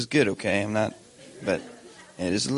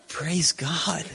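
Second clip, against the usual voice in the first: higher, retold hearty "praise God"; mock pious exclamation; 7 semitones higher than usual. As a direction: playfully act out your delighted reply to the wife. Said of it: "I said".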